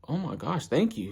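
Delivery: put-on lifted, grateful boyish voice; eager Ippo voice. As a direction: gush thanks like an eager kid. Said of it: "Ippo's like".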